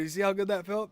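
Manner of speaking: loud, high imitation of egging-on friend; mock triumph. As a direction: rub it in loudly. Friend's triumphant reply, retold.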